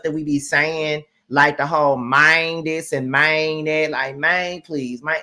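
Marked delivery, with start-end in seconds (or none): 2.0-2.9 "mind" drawn toward "mane", Southern slang for man; Memphis-Mississippi "mane". Shown as a demonstration. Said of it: "like, we say that". 3.1-3.9 "mind" drawn toward "mane", Southern slang for man; Memphis-Mississippi "mane". Shown as a demonstration. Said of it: "like, we say that". 4.2-5.2 "Man" with the vowel of "main", Memphis style; Memphis-Mississippi "mane". Shown as a demonstration. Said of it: "like, we say that".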